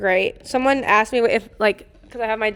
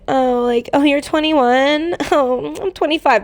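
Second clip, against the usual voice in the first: higher, slow, snooty mock of a condescending girl; mocking snobby girl; 4 semitones higher, slower than usual. Retelling the snobby girl at the bungalows, mocking and higher. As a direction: ham up a stuck-up party girl looking down on you.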